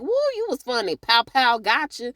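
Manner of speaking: high gushing woo and pow pow; starstruck fan. Retold or imitated. Detective gushing over a singer's show with his catchphrase, high and hammed-up. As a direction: ham up a fan's catchphrase.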